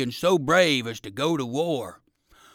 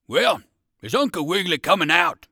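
loud, higher dog soldier's call; 4 semitones higher, 8 dB louder than usual. A narrator's reading. Dog soldier calls for Uncle Wiggily to come out, calling loudly. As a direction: call it out loudly to someone indoors. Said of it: "called the dog again".

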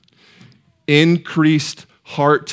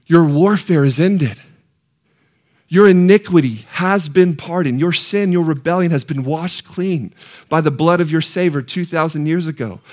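raised-pitch preacher's proclamation; scripture proclamation; 4 semitones higher than usual. Acted. Church telling Israel its sin is pardoned, scripture proclamation. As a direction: declare the pardon in measured, ringing phrases.

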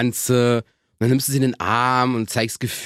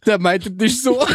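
mock consoling; 5 semitones higher, much slower than usual. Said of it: "nehme ich meine Frau in den Arm".

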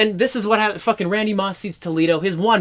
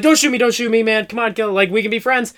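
higher, mildly frantic mock begging; pleading rat; 4 semitones higher than usual. Rat begging cowboy for its life, mock pleading. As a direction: talk your way out of being shot.

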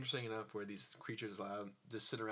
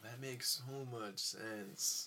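sarcastic; much slower than usual. Real, not acted. Sarcastic reply.

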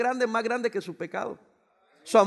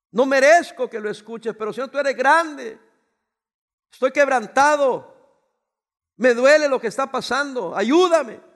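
anguished plea; 4 semitones higher, 8 dB louder than usual. Acted. Preacher voices David's broken prayer.

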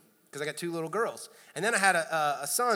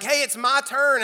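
put-on kid insisting; 7 semitones higher, 8 dB louder than usual. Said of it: "and I'm like".

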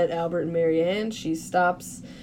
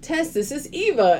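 lifted, higher-pitched retold greeting; eager introduction; 5 semitones higher than usual. Retelling Marianne introducing Tess and Eva, eager. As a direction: introduce them with mock eagerness. Acted cheerful introduction of guests.

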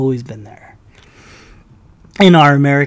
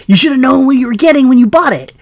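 loud, higher outburst; angry rant; 9 semitones higher, 9 dB louder than usual. Real, not acted. Ranting at McDonald's for viewers, loud and angry. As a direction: blast it like a fed-up ranter. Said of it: "I'm ranting for you guys".

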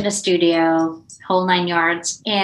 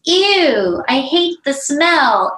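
high, loud grossed-out "Ew", then slow; recoiling from a bad smell; disgusted; 6 semitones higher, 3 dB louder, much slower than usual. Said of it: "he goes".

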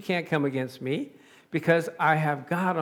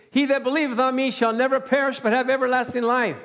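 raised, higher-pitched proclamation; crying out; 4 semitones higher, faster than usual. Acted. Preacher voicing Jesus in the streets, crying out. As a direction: call it out in one sustained push. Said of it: "he cried out into the streets".

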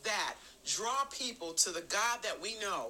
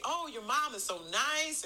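gushing guest; 6 semitones higher than usual. Retold or imitated. Voicing admiring guests' compliments.

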